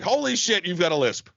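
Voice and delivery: high, startled mock outburst; mock surprise. Mocking reaction in story.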